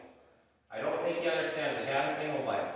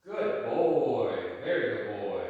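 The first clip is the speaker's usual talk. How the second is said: dog praise; 3 semitones lower, 4 dB louder, slower than usual. Real, not acted.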